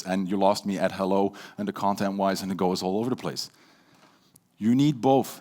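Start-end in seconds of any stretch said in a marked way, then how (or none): 0.0-2.4 low, level drone; monotone. Shown as a demonstration. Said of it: "in a very monotone voice". 2.4-3.5 low, level drone; monotone. Shown as a demonstration. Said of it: "in a very monotone voice".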